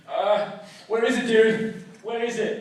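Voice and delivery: mildly heated, insistent questioning; aggressive. Retold or imitated. Roommate rummaging through the freezer, mildly aggressive. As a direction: press him with a touch of aggression. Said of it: "like, like, aggressive".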